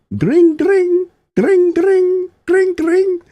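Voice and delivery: loud, very high-pitched trilled ringing; imitated phone ring. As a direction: mimic a shrilling telephone in high bursts.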